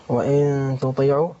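slow تطيعوا with a strong, heavy emphatic t. Shown as a demonstration. Caller demonstrates the letter from the verse, strong emphatic ط in تطيعوا. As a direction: give the ط of تطيعوا full force. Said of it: "من أقوى الحروف".

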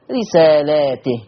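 رسالاته with long laa, then ti; slow "risaalaatih" for رسالاته; Warsh plural reading. Shown as a demonstration. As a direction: stretch the lam of رسالاته, ta with i. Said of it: "وكسر التاء".

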